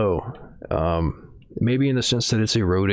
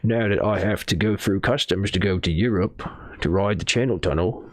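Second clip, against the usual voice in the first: put-on New Zealand accent. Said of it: "that's like a New Zealand accent".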